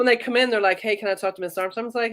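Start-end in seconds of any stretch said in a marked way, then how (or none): 0.8-1.8 quick, breezy officer asking for someone; walk in and ask briskly, lightly acted; brisk casual request. Officers arrive asking for her.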